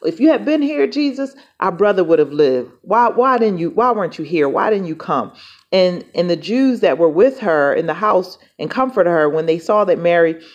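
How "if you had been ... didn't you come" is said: confronting. Retold or imitated. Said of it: "kinda confronting him".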